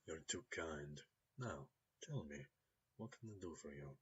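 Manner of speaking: put-on soft, cultured Russian accent; smooth Russian-accented gentleman. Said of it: "There's a hint of a Russian accent there".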